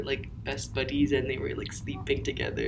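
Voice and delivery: trailing down to a whisper; softly fading. Real, not acted. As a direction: shrink to a hushed whisper. Describes sleeping whales softly.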